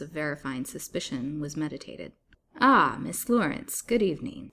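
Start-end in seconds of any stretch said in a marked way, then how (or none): 2.6-4.5 airy greeting. A narrator's reading. Doctor greets the captive Miss Lawrence, airy. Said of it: "said Doctor Pratt airily".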